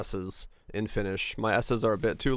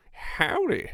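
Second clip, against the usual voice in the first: howdy sung out much higher through a laugh; cowboy howdy. Pretend. Streamer answers chat's phone greeting, mock cowboy howdy. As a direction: toss out a playful cowboy-style howdy. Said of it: "answer my phone with howdy".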